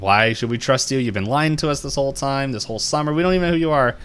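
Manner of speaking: indignant challenge, pitch climbing; acting out a distrustful confrontation; retold accusation.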